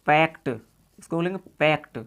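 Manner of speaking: "पैक्ट" ending on a clear T. Shown as a demonstration. Teacher models past forms for learners, "पैक्ट" with T ending. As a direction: finish "पैक्ट" with T, no D. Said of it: "टे हो जाती है".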